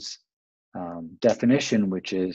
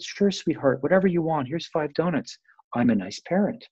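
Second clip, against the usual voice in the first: higher, sugary yes-to-everything parent voice; indulgent nice parent; 6 semitones higher than usual. Retold or imitated. Parent indulging a toddler, higher and sweetly giving in. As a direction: coo at the child like a pushover. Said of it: "nice to your three-year-old".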